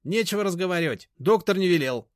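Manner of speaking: high, loud, final; high-pitched snapping refusal; curt refusal. A narrator's reading. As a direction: cut him off flatly. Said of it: "отрезала Машка".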